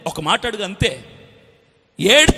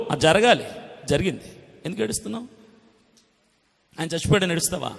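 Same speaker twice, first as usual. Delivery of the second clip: ordinary delivery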